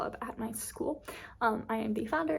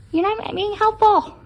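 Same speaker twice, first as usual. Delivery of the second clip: playful scolding; 8 semitones higher, 12 dB louder than usual. Real, not acted.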